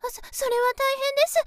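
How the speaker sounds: high, loud flustered urgency; polite but flustered; alarmed concern. Acted. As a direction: react with sudden alarm, voice jumping up. Hears someone will be late.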